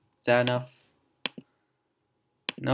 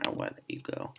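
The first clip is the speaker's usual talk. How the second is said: mock gentle whisper; 14 dB quieter than usual. Fake release before psych.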